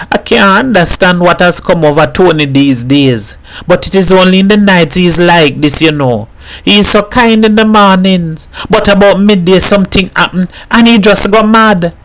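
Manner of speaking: a neighbour pouring out her worry over her man; lightly voiced troubled woman confiding; worried Mrs Herrera.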